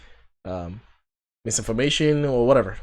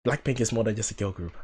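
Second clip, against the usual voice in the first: hushed, dramatic trailer narrator; movie trailer voice; 7 dB quieter than usual. Pretend. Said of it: "That sounded like a movie trailer".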